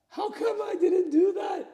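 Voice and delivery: loud, high exasperated outburst at himself; how could I be so stupid; self-reproach. Retold or imitated. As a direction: shout it at yourself in disbelief. Angry at himself, retelling failure.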